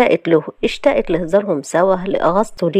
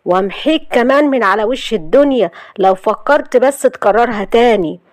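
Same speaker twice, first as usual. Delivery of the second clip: a touch of harshness; harsh threat; 3 semitones higher than usual. Acted. Husband gripping the man's collar, mildly harsh threat. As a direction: threaten him, lightly voiced menace. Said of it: "وقال له بقسوة".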